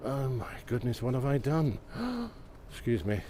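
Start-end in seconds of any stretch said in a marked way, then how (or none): 1.8-2.4 sharp high intake of breath; startled gasp. Real, not acted. Walker facing the climb up here, startled gasp.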